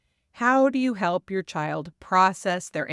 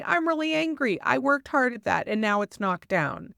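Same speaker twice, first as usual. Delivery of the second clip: mild demo of anger; 4 semitones higher than usual. Shown as a demonstration. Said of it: "you can say".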